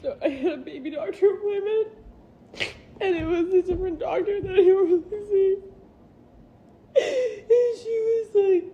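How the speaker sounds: teary voice breaking between words; holding back sobs as she tells it; crying while talking. Real, not acted. Mother retells the baby appointment, teary. Retelling the doctor visit in tears.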